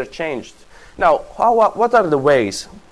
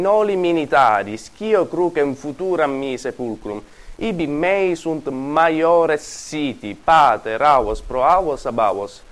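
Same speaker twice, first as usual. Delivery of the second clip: reading Latin aloud. Shown as a demonstration. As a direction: give each Latin word its weight. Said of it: "Let me read it in Latin".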